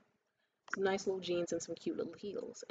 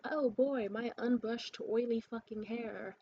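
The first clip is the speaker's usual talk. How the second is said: louder, higher mocking voice; hammed-up eager strutting, pitched up; mock white women; 4 semitones higher, 5 dB louder, slower than usual. White women out in the streets today, mocking higher voice. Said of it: "gaggles of white women out in the streets today just like".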